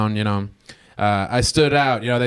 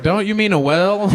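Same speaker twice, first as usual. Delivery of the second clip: pitched way up, teasing; high mocking question; 9 semitones higher, 3 dB louder than usual. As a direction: correct him with a high mocking lilt. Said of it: "I was like".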